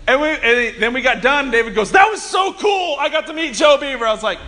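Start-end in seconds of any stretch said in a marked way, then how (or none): 1.9-4.1 excited gushing. Retold or imitated. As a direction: imitate a thrilled fan, starting high. Retold brother gushing afterwards.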